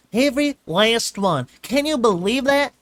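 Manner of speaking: high, loud, eager little filly rattling on; bubbling over to tell her day; excited filly chatter. A narrator's reading. Filly gushing to Twilight about the park, excited.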